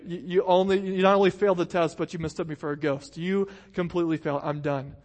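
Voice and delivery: half-hammed exasperated teacher; mock exasperation. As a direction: scold them as if you've given up. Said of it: "He could have said that".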